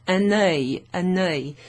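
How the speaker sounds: UN ŒIL run together with a sounded N; N liaison. Shown as a demonstration. Teacher showing the N being pronounced, linked liaison. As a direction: loudly link the N of UN onto ŒIL. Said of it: "you've got the N being pronounced".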